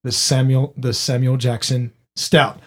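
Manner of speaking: low, slow movie trailer narrator; horror trailer voice. Acted. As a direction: announce it like a dramatic trailer. Fake beer ad announcement.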